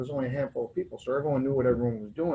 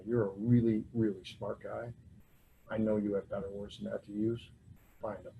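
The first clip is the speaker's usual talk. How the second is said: low, soft, measured advice trailing quieter; calm admonishment; 4 semitones lower, 6 dB quieter than usual. Retold or imitated. Sponsor correcting his swearing on the phone, calm and quiet. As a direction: gently set him straight, voice dropping away.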